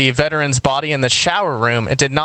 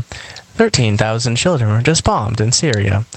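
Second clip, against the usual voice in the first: measured public-radio news voice, slowing on the bad news; calm NPR newsreader; slower than usual. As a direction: imitate a calm reporter reading terrible things. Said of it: "in the calm voice".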